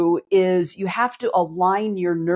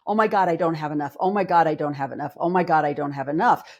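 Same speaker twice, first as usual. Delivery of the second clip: anxious panic; 3 semitones lower, faster than usual. Retold or imitated. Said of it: "the trauma response is".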